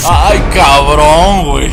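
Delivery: slow, loud cry of shock; badly startled. Real, not acted. Player just frightened by the creature, badly startled. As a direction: curse loudly as you jump in fright. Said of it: "me espanto bien culero".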